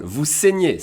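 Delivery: "saignez" with closed é vowels; accent aigu demonstration. Shown as a demonstration. Teacher asking learners to listen, closed accent aigu sound. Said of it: "you hear E accent aigu".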